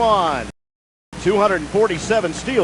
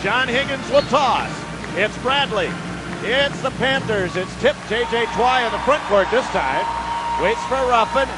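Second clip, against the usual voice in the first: play-by-play. Acted. Live play-by-play call.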